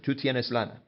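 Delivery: TÚ TIENES LANA with a falling end; statement tune. Shown as a demonstration. Teacher leaving the Spanish part as a statement, falling tune. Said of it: "leave that as a statement".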